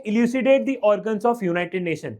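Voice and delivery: reads the question out word by word, very slowly; very slow, deliberate exam reading. Acted. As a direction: dictate it slowly to the class.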